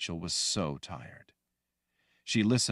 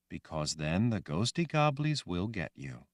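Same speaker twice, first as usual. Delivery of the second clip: calm reassurance. Acted. Woman answers gently.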